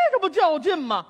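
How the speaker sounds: exasperated. Real, not acted.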